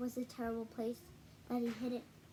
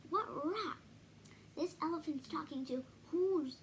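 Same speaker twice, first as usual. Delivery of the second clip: mock shouting. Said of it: "came shouting".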